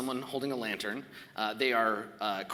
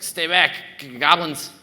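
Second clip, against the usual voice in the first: scared warning; 5 semitones higher, 12 dB louder than usual. Acted. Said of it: "He's like".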